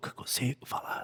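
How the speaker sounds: put-on hoarse voice. Retelling the boy's first words after his tube was removed, imitating a hoarse voice. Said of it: "Ele tava com a voz rouca".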